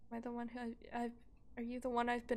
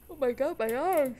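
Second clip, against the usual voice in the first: pained yell; 3 semitones higher, 10 dB louder than usual. Real, not acted. Bright screen hurts his eyes.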